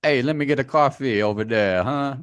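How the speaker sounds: put-on a barely-there New Jersey accent. Host joining in with his own weak New Jersey accent. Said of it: "The New Jersey accents".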